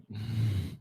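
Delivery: beatbox nasal bass demo; short wordless bass noise; imitated nasal bass. Shown as a demonstration. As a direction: imitate a buzzing bass through the nose. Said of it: "it's like".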